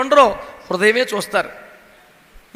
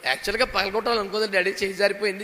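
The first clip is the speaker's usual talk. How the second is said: put-on timid child excuse; 6 dB quieter, faster than usual. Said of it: "అప్పుడు ఆడు".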